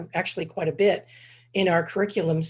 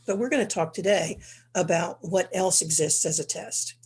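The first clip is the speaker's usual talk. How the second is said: stuffy, congested speech; 4 dB louder than usual. Real, not acted. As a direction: talk through a blocked nose. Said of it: "very, uh, congested".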